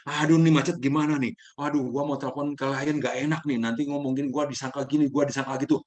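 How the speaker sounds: mild, hammed-up fussing about calling the client; fretful self-talk. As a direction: worry aloud about being late, lightly fretful.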